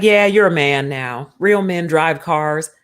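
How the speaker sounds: a lightly voiced father talking his son into it; swaggering dad. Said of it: "He's like".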